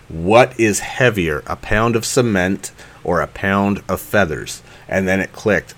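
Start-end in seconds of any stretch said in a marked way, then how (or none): 0.1-4.6 slow, deliberate, every word spelled out; over enunciating. Retold or imitated. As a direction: say it very slowly and carefully. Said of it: "let me say this very slowly".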